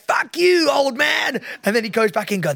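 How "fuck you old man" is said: high mock yell of a cheeky kid; jeering kids. Kids answer the old man, high jeering mock shout. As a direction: imitate kids yelling back. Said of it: "then it's like".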